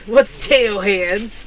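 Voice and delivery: slow, puzzled, breaking into a laugh; bemused and laughing; laughing confusion. Real, not acted. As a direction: puzzle over it then laugh. Reading a confusing comment.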